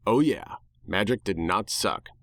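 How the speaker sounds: ordinary delivery, nothing marked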